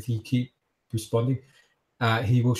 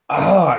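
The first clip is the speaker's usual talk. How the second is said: short, higher cry of pain; 6 semitones higher, 7 dB louder than usual. Acted. Man whose striking arm is grabbed, pained cry. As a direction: yelp as your arm is gripped. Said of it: "cries out in pain".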